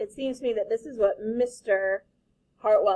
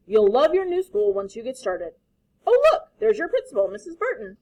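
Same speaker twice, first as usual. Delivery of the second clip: hearty father; 9 dB louder than usual. Acted. Father pushing cheerfully.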